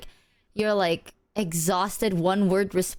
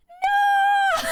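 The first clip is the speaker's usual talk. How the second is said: very high, louder yell; retold shout; 4 dB louder than usual. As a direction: yell across the course to stop her. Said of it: "Numi go like".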